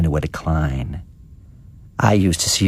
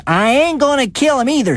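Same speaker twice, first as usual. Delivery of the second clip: high, tearful protest; tearful denial. A narrator's reading. Luella answering her accuser, tearful and high. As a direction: cry out the denial, pitched way up. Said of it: "and she begun to cry".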